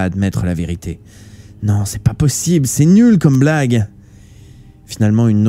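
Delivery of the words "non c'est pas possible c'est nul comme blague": desperate denial. Acted. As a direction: deny it, voice climbing. Shuya refuses to believe.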